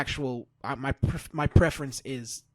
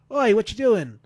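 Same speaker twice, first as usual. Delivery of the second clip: a loud, higher mock Pac shout without the Geordie accent; 8 semitones higher, 9 dB louder than usual. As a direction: bark it out like Pac shoving someone away. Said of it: "I was gonna try and do the accent".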